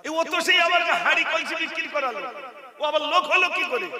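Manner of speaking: mother laughing at her son's silly warning; mocking laugh. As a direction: scoff at the boy through a laugh.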